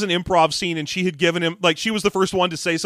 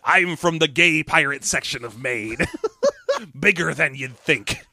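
mock pirate line, half laughing; laughing through it. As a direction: play it as a joke you can't keep straight. Camp pirate Ahab bit.

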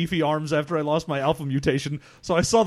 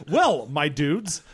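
character voice imitation; much slower than usual. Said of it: "You know how Norlotho Tank is always doing that".

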